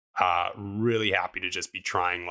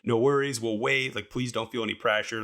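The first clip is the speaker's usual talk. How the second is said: higher-pitched, kindly imitated soloists; respectful reassurance; 5 semitones higher than usual. Passing soloists telling a climber there's no rush, imitated as respectful. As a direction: imitate someone kindly waving off any pressure. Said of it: "they were super respectful".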